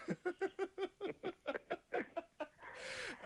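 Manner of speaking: long high burst of real laughter; long high giggling laugh. Real, not acted. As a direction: crack up at the caller's cheeky line. Host laughing at caller's joke.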